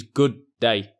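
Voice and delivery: "good day" with one d; linked d. Shown as a demonstration. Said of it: "we'll only say it once".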